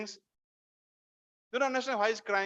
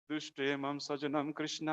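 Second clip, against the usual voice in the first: low, subdued plea to Krishna; acted despondent recitation; tearful lament; 4 semitones lower, much faster than usual. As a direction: recite it as a man near tears. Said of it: "He's crying".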